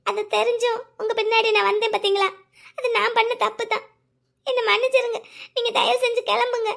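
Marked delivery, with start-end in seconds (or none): 2.8-6.7 tearful. Acted. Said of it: "please அழாதீங்க".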